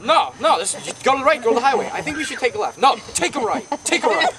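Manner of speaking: mock argument. Grandfather and driver argue over turns, insistent mock bickering. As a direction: act out insistent squabbling over directions.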